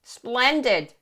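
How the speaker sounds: high crowing witch. Acted. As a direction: crow it like a pleased old witch. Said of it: "crowed the witch".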